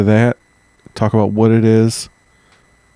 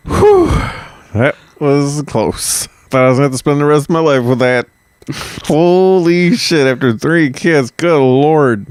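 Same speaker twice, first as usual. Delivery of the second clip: put-on German accent. Freshly divorced German man marvels at his escape, mock-relieved German accent. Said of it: "did not comment on my German accent".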